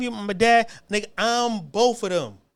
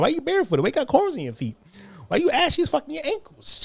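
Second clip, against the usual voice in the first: higher-pitched teasing questions; mock taunt; 6 semitones higher than usual. Kids picking on whoever stood out back then, mock taunting. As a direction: needle them with mock disbelief.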